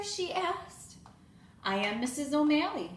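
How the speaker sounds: lively storybook read-aloud with voiced characters; reading to children. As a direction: read it like story time for little kids. Teacher reads picture book aloud.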